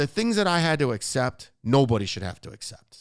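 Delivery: loud, emotional yell. Talking with two others in a conversation, yelling. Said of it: "Sorry for yelling".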